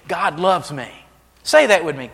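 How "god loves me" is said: "God loves me" spoken firmly, as a sure fact; said with conviction. Shown as a demonstration. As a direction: say it like you truly believe it. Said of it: "like you believe it".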